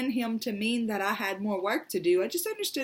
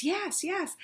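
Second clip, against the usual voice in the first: sister; 9 semitones higher than usual. Retold or imitated. Baby sister accepting collect call.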